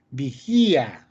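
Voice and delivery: "Vigía" with a stressed i apart from the a; separated vowels. Shown as a demonstration. Teacher gives a hiatus example, separated vowels in "Vigía". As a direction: hold the i in "Vigía" before the a. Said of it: "Porque están en diferentes sílabas".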